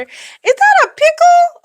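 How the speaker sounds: very high, slow cooing squeal; squeaky gush. Real, not acted. Vlogger coos over a cute pickle sticker, squeaky high. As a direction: coo at it like a tiny pet.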